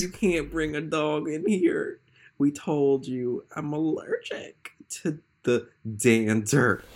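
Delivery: a mild whiny complaint from a nervy deputy; whining. Acted. Deputy complains to the inspector about the dog, whining slowly. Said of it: "Matthews whined".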